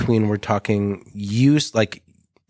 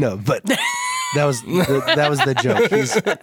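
laughing shout; 4 semitones higher than usual. Real, not acted. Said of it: "laughing protest over a joke".

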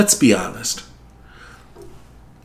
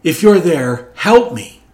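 higher, louder cry for help; yelled prayer; 5 semitones higher, 4 dB louder than usual. Retold or imitated. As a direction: yell up to God from the branch. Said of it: "He simply yelled out".

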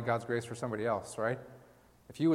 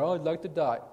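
whiny sigh of a sulker; mock whine; 4 semitones higher than usual. Jonah sitting in the sun, mock whining. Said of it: "he just sits there".

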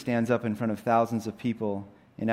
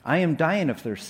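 put-on higher-pitched plea of a thirsty girl; desperate Jill; 5 semitones higher than usual. Jill tells the lion she is dying of thirst, desperate. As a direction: plead lightly from a parched child's part.

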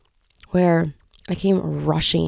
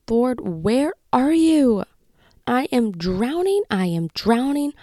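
slow, drawn-out plea for help; retold desperate cry; 2 semitones higher than usual. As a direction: imitate crying out to God in frustration. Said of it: "I cried out to him".

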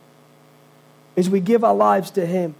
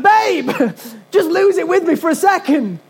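higher, laughing through a mock plea; 6 semitones higher than usual. Husband laughingly begging his calm wife, laughing. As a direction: giggle while begging to vent. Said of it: "They're like".

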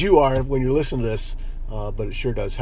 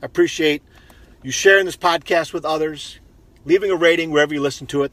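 upbeat, slightly louder sign-off read; higher, projected outro delivery; podcast outro; 4 semitones higher, 4 dB louder than usual. Acted. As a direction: thank the listeners like a practised host.

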